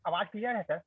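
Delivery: faint, tentative check of the line; too quiet. Real, not acted. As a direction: ask softly if you can be heard. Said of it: "थोड़ा जोर से बोलिए".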